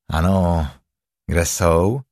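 lightly voiced low tiger; a hint of a low-voiced tiger; Tigger. Tigger answers Roo.

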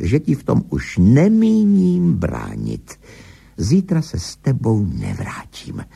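measured, emphatic declaration; firm, emphatic. A narrator's reading. Husband finally stands up to his wife, firmly emphatic. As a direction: press home the key words, drawing some out. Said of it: "potichu, ale důrazně pokračoval".

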